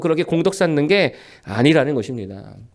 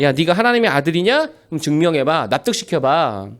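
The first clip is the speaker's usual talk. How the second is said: taunting devil. Acted. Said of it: "마귀가 와서 묻습니다".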